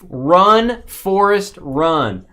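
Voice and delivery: loud movie-line callout; excited shout. Pretend. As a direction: shout it like Forrest Gump. Forrest Gump line called out.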